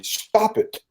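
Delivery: high pitched mock cry of protest; distressed protest. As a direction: voice her panicked plea, pitched high. Hypnotised woman protesting being touched.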